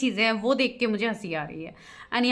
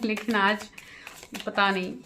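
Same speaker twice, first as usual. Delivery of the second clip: laughing. Real, not acted. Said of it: "मैं अक्सर ऐसे नहीं करती हूँ".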